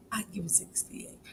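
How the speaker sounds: soft conspiratorial whisper; whispered joke to the viewers; whispered aside. Real, not acted. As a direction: drop to a whisper for the punchline. Whispered aside about age.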